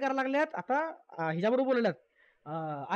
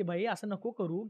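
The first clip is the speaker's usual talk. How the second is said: soft, slow, lower coaxing; gentle coaxing; 5 semitones lower, 5 dB quieter, slower than usual. Retold or imitated. Ankita softly coaxing Arya not to act like that, gently. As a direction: talk her down gently like an elder sister. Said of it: "Ankita समजावायला लागली आर्याला".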